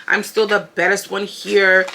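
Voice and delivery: slow, put-on accent; imitated accent, deliberately paced; Linda accent. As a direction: stretch out the boast in a mimicked accent. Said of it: "this is my Linda accent".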